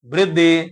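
"ਬ੍ਰਿਧੇ" with b and r joined, short i after the r; half rara. Shown as a demonstration. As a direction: say "ਬ੍ਰਿਧੇ" as bri-, not bir-. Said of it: "ਅੱਧਾ ਰਾਰਾ ਪਿਆ ਹੋਇਆ ਹੈ". ("ਬ੍ਰਿਧੇ" ਵਿੱਚ ਬੱਬੇ ਨਾਲ ਅੱਧਾ ਰਾਰਾ, ਸਿਹਾਰੀ ਉਹਦੇ ਉੱਪਰ)

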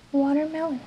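"watermelon" with an English w and r; English word watermelon. Shown as a demonstration. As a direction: model "watermelon" clearly. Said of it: "se dice".

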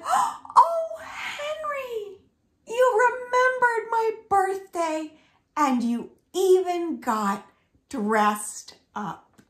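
high, delighted squeal; thrilled Sally. Acted. Sally thrilled that Henry remembered her birthday.

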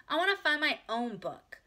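put-on high, loud child demand; insistent little girl. A narrator's reading. Ramona wants to choose herself, high and insistent. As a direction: demand it like a stubborn four-year-old. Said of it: "said Ramona".

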